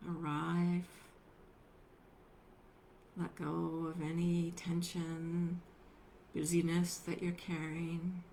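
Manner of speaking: unhurried meditation guidance with long pauses; guided meditation. Acted. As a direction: gently guide them into stillness, leaving space between phrases.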